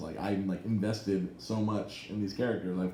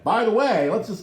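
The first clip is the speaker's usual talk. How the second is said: loud aside; 11 semitones higher, 7 dB louder than usual. Real, not acted. Sudden spoiler aside.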